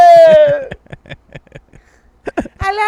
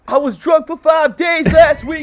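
shouting; 6 semitones higher than usual. Real, not acted. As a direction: belt it out proudly. Shouted confession of bender.

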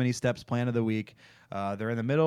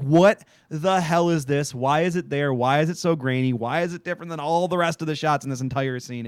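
exasperated string of questions, a touch raised; retold bafflement; 3 semitones higher, 4 dB louder than usual. Viewer reacting to a grainy shot, retold bafflement. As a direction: pile up the questions in mild disbelief.

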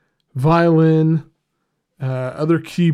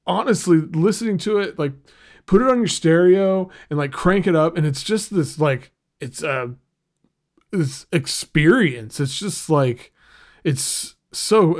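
excited; 2 semitones higher than usual. Real, not acted. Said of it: "Got a little excited there".

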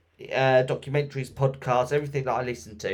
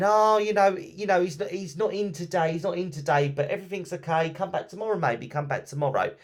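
placating colleagues; 6 semitones higher than usual. Retold or imitated. Colleagues fobbing off worried sister.

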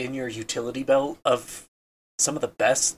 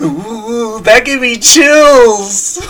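mock chilled; 9 semitones higher, 13 dB louder, much slower than usual. Mock reaction to the ghost voice.

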